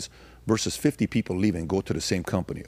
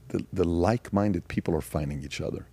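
hushed conspiratorial whisper; 4 semitones lower, 6 dB quieter than usual. Retold or imitated. Confiding to the stranger that like-minded people are finding each other, whispered. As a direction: lean in and whisper the secret. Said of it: "I said".

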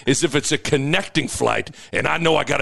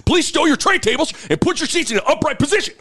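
pilot intercom voice, higher; flight captain announcement; 10 semitones higher, faster than usual. Retold or imitated. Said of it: "this is your captain speaking".

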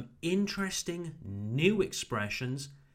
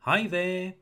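warmer greeting; 4 semitones higher, 4 dB louder than usual. Shown as a demonstration. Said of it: "simply add the word there".

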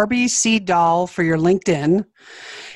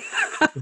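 high squeaky prairie dog chirp; 6 dB quieter than usual. Pretend. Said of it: "Do it again".

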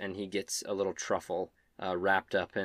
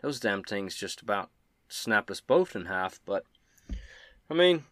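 Quinn; 2 semitones higher, 5 dB louder than usual. Acted. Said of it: "Quinn looks at you and says".

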